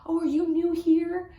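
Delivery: a hint of a sweet old lady; elderly woman.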